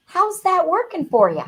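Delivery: a hint of a firm mum's tough love; mum's tough question. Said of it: "And my mom said".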